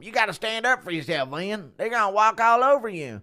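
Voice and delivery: high, rising urgent pep talk; Bryce lecturing. Retold or imitated. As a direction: push him to stand up, pitch climbing. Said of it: "Impression of Antifa Ian being educated by Bryce".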